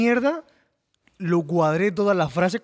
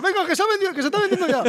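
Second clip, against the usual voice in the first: imitated salesman; 11 semitones higher, faster than usual. Imitating the MediaMarkt community manager.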